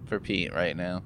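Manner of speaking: ordinary talk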